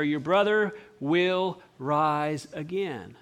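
very slow and calm, each word held; gentle solemn promise. Acted. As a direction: promise it tenderly and unhurried. Jesus promise repeated slowly.

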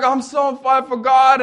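a hint of a beaming believer; chirpy homeschool girl. The homeschool girl gushing about faith, light cheerful voice.

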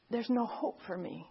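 retold hopelessness. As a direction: voice a man who has given up. Retelling a despairing man with bottle.

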